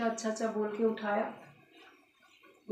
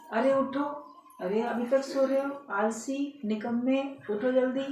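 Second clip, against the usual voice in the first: raised-pitch, nagging mock telling-off; scolding; 4 semitones higher than usual. Rude parrot waking its lazy master, scolding. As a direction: berate a lazy sleeper, playacted. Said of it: "डांट के बोलने लगा".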